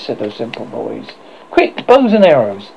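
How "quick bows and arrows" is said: urgent. A narrator's reading. Boys urgently calling for weapons.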